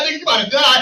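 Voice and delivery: loud, high-pitched cackling taunt; laughing jeer; retold heckling laugh. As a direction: shout it through laughter from the back. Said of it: "like, laugh".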